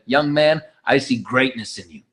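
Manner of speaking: low, softening, heartfelt quote; tender. Retold or imitated. Mentor kneeling to a ten-year-old, tender. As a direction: imitate a mentor gently affirming a child.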